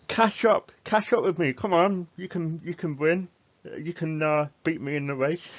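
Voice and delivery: a little tomato calling back in a race; racing tomato voice. Acted.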